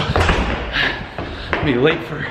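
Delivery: out of breath. Real, not acted. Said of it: "I just ran a bunch of stairs".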